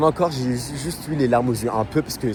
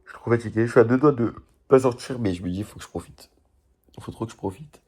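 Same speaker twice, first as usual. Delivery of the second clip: tired; 2 semitones lower, 4 dB quieter than usual. Real, not acted. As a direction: talk like you can barely stay up. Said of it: "Je suis fatigué de fou".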